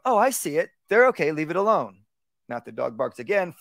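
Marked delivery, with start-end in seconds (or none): 0.1-2.0 upbeat reassurance. Shown as a demonstration. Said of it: "I go".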